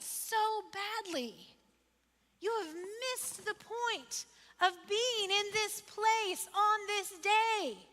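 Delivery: emotional rebuke. Acted. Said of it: "This is emotional".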